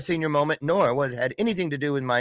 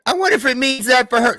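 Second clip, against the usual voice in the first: teasing aside; 11 semitones higher, 6 dB louder, faster than usual. Real, not acted. Joking aside.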